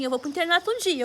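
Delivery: put-on a girl declaring her dream to herself; saying it out loud at home. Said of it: "E eu falava assim".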